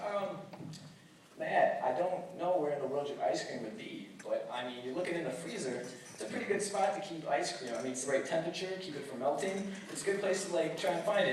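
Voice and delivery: soft, hesitant helpful explanation; sincere. Retold or imitated. Guest gently helps roommate look in the freezer, sincere. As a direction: reason with him softly and earnestly. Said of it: "and I was sincere".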